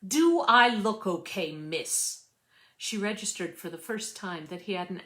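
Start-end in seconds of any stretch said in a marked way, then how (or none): 0.0-2.2 put-on British accent. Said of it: "a very British accent".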